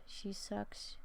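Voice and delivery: whispered. Real, not acted. Aside about a song choice.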